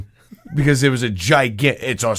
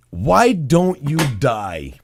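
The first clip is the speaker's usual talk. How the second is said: slow, drawn-out deadpan plea; mock-dramatic delivery; much slower than usual. Shown as a demonstration. Host teeing up the next story, mock-dramatic. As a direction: stretch each word out slowly.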